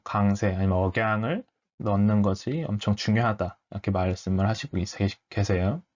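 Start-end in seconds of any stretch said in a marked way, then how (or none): none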